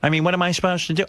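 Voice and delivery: a hint of a fussing old mom; mother grumbling about the trainer, mildly mimicked; imitating his mother. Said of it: "My mother goes".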